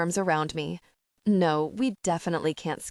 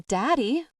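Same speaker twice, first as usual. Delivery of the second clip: higher, louder startled call of Daddy; alarmed cry; 6 semitones higher, 3 dB louder than usual. Acted. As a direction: call out in sudden alarm at finding him. Finds her father fallen on floor.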